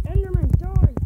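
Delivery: high, loud attack yell; battle cry. Real, not acted. Player attacking the Enderman, battle cry. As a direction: yell it as you strike.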